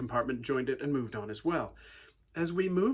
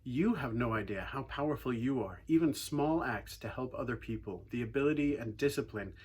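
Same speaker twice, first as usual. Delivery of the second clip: sermon; 3 semitones lower than usual. Acted. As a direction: draw the congregation in gently. Preaching the lesson to congregation.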